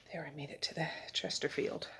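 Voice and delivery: soft relieved whisper. Real, not acted. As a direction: whisper while balancing the mug. Carrying full mug carefully.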